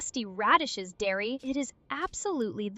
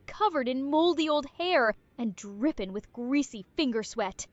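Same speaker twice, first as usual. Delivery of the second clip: put-on country bumpkin accent. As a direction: lay on the country twang. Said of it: "Country Bumpkin Arya come back".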